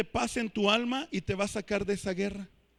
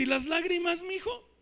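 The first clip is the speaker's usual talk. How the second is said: high, soft questioning lilt; imitated mother; 7 semitones higher, 4 dB quieter than usual. Mother asks tantruming child about tears, soft and high. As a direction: ask quietly like a mother checking on her child. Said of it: "Y la mamá dice".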